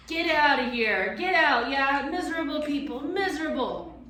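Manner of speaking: high, loud shrieking abuse; screaming creature. A narrator's reading. Creature screaming at the professor and children, loud. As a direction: screech the insults like a wild creature. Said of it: "It was screaming and dancing up and down, hurling abuse".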